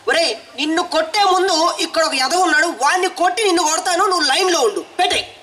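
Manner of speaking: mock fury at the mute caller; comic threat. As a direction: threaten him over the phone. Threatening to beat him.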